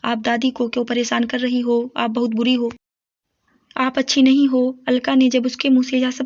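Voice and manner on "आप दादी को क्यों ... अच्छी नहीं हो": lightly voiced tearful boy, a touch of sobbing; a mild crying plea from a small boy; crying child. A narrator's reading. Boy tearfully scolds his mother for hurting grandma, mildly crying. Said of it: "उसने रोते हुए कहा".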